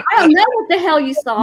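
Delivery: mock-indignant yell; retold yell. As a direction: yell it back as in a retold argument. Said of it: "I'm yelling at him".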